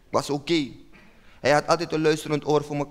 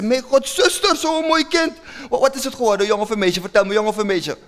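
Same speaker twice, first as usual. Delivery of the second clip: excited new father; 5 semitones higher than usual. Retold or imitated. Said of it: "ik zeg".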